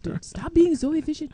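high, put-on voice of a laid-back priest; priest's advice. Guest imitates the priest teasing him, high put-on voice. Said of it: "Father Dominique will tell you".

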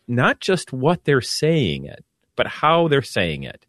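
"not" and "how" leaned on, slow; stress on not and how. Real, not acted. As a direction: hit "not", then "how". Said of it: "contrast what vs how".

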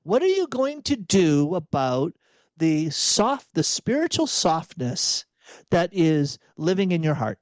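deliberate, searching challenge to oneself; earnest self-examination with full, careful words; self-directed imperative. Shown as a demonstration. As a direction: put it to yourself word by word, pointedly. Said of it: "say it as an imperative".

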